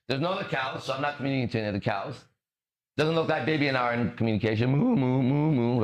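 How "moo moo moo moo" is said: imitation cow moos. Cow mooing beside its baby, short imitated moos. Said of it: "I'm a cow".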